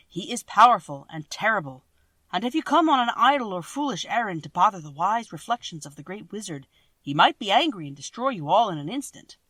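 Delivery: loud, booming warning of the wizard; stern warning. Acted. Guardian warns Dorothy's party, loud and ominous. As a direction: boom it out to scare the travellers.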